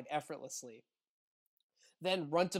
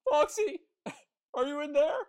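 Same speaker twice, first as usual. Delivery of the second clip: squawky high goose voice, much higher and louder; 12 semitones higher, 10 dB louder than usual. Acted. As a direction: honk it out like a silly goose. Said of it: "So I will just go".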